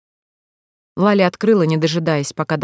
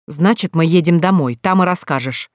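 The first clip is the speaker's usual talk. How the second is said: enraged. Acted. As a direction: lay down the law, seething. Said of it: "взбесился Дамир". (взбешённо, резко)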